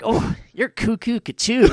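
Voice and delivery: surfer dude voice, laughing through it; laid-back surfer, cracking up. Retold or imitated. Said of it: "it was more of a surfer voice".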